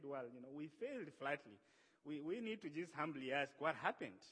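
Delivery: low, softened admission of failure; humble. Acted. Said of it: "They waited in humility".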